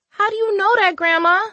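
sharp high irritated question. Acted. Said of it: "she asked, irritated".

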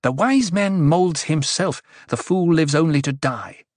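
exaggerated imitation of a sage; heavy mimicry. A narrator's reading. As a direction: parrot someone's wise sayings mockingly. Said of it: "Her voice was heavy with mimicry".

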